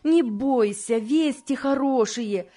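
high, eager urging; excited reassurance. Acted. Friend sends anxious wife to hear news, excitedly. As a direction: pitch up, climbing on the last word.

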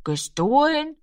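high-pitched questioning echo; doubting echo. A narrator's reading. Rami weighing Frau Lenzen's accusation, doubting echo.

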